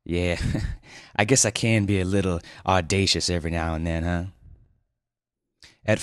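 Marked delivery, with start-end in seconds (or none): 0.0-4.2 laughing, modest; lightly laughing, bashful; smiling chuckle. Acted. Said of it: "Winston smiled".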